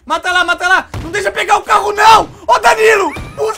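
yelling orders between laughs; loud half-laughing commands; real excited yell; laughing shout. Real, not acted.

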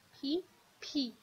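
«پی، پی» slow, with a tense p; tensed p. Shown as a demonstration. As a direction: stretch out «پی» with a tight p. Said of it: "تاکید بیشتره". («پی» آهسته و تأکیددار)

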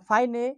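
ফাইনে as "fai-ne", final e sounded; mistaken reading. Shown as a demonstration. Teacher listing possible misreadings, ফাইনে with sounded final e. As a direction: misread fine as ফাইনে with an extra "ay" ending. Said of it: "কোনটা সঠিক?".

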